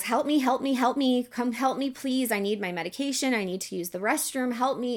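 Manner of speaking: high, full-throated screaming at the top of the lungs. Retelling being left alone after surgery, re-enacting own screams for help. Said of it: "I started screaming like at the top of my lungs".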